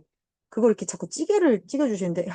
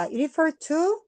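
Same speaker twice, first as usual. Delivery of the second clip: slow set phrase; 6 semitones higher, much slower than usual. Shown as a demonstration. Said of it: "세트로 외울 때의 to".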